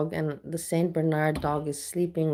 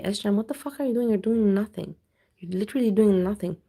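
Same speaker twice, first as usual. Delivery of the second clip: annoyed rant; 2 semitones higher, 3 dB louder than usual. Real, not acted. Ranting at streamer.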